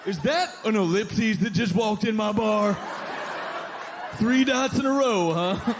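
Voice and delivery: a touch of a high indignant bar regular; lightly voiced angry bartender; mock angry barfly. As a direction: sneer it at the doorway. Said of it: "said dot angrily".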